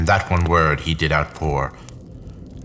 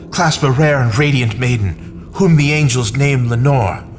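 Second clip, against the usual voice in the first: desperate pleading; 5 semitones higher than usual. Acted. Grieving man begging the raven for hope, anguished. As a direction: cry out to the bird in despair.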